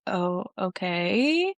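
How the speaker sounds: long, slow "okay" rising at the end; drawn-out intrigued reaction. Retold or imitated. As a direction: stretch out "okay" and let it climb. Retold reaction to man being cornered.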